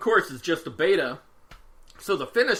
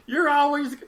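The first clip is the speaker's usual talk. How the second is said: high-pitched mock exasperation; imitating exasperated mom; 9 semitones higher than usual. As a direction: act a mother at her wits' end. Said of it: "really on the end of her wits".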